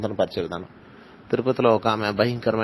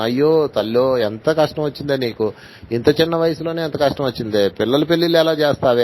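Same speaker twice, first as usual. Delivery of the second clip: imitating a wailing relative; 4 semitones higher than usual. Relative wailing at the widow, in a mock tearful lament. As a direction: ham up the relative's crying lament. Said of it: "ఏడుస్తూ గట్టిగా కౌగిలించుకుని".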